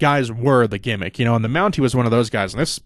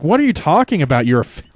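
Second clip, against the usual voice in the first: higher, louder, baffled "what are you talking about"; incredulous disbelief; 4 semitones higher, 5 dB louder than usual. Retold or imitated. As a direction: scoff at the absurd line, raised voice. Speaker reacting to Randy's line.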